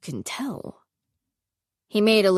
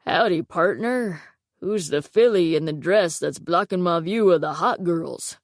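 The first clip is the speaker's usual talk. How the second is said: cowboy voice. Acted. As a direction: tease her like a swaggering cowboy. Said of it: "added in a cowboy voice".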